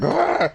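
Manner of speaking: sudden high startled yelp. Retold or imitated. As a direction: yelp like something grabbed you. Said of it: "you'll just jump like".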